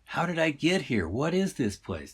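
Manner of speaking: exasperated halibut. Acted. Lost fish pressing the shopper for answers, mildly exasperated. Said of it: "couldn't really hear the sigh of the halibut".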